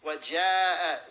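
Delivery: "وَجَاءَ" with the long aa held only briefly; shorter elongation. Shown as a demonstration. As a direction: recite "وَجَاءَ" with a moderately stretched vowel. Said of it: "I really did it short".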